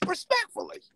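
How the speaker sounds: Respectfully in a comic high character voice; Stumbles voice. Shown as a demonstration. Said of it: "In my Stumbles voice".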